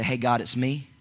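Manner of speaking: just talk to God softly; quiet everyday prayer; quiet simple prayer. Shown as a demonstration. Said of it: "I'm not talking about".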